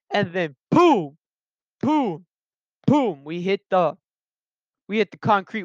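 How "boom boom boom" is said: spaced-out booms for each impact; punchy mimicked thuds with gaps between; imitated crash impacts. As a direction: voice each hit as a separate boom.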